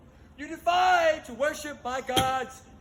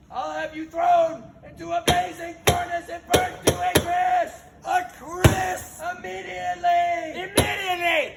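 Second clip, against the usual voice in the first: furious threat; 2 semitones higher, 4 dB louder than usual. Acted. King threatens the furnace.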